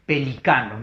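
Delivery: Pelicano with the weight on CA, not on LI; stress on the CA of Pelicano. Shown as a demonstration. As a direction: say Pelicano stressed on the next-to-last syllable. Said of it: "fuerza de voz en la K". (Pelicano con la fuerza de voz en CA)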